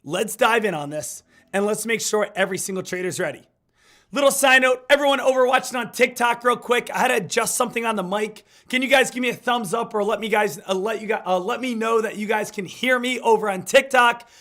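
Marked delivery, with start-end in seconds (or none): 4.1-14.3 smoker's rasp. Real, not acted. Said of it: "I know I sound like I've been smoking cigarettes".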